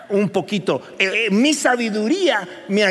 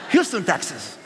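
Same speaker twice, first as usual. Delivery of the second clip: laughing repeat; 3 semitones lower than usual. Shown as a demonstration. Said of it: "Así, con acento que sonara bien increíble".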